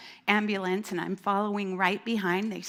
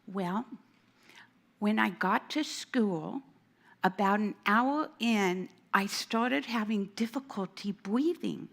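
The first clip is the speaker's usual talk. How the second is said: put-on little kid voice. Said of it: "I'm doing the little kid voice".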